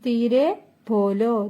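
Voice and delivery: slow, careful model of ധീരെ ബോലോ; slow teaching model. Shown as a demonstration. Teacher modelling Hindi phrase for Malayalam learners, slowly. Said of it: "പതുക്കെ സംസാരിക്കൂ".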